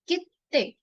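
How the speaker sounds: कित्ते with a held stop before ते; कित्ते said crisply, stopping on the double t; double t in kitte. Shown as a demonstration. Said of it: "double consonant".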